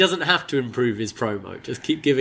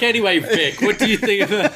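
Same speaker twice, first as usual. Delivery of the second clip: higher, breezy fake commentator voice; mock Gacy commentating; 8 semitones higher than usual. Scene: Gacy at the desk turns to Vic, higher, mock casual. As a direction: play the intruder casually asking the co-host. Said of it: "He's like".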